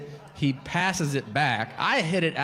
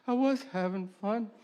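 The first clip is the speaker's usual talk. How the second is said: offended audience member; 9 semitones higher, 5 dB quieter than usual. Retold or imitated. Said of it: "I picture somebody out there going like".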